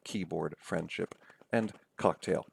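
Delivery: Keyboard, friendship, cocktail as KEY-board, FRIEND-ship, COCK-tail; stress on first syllables. Shown as a demonstration. Lecturer lists examples, stressing first syllables of Keyboard, friendship, cocktail. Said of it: "stressed syllables are the first".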